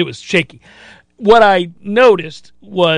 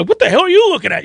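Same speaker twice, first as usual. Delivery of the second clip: heckling fan; 9 semitones higher, faster than usual. Retold or imitated. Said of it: "You can hear people go".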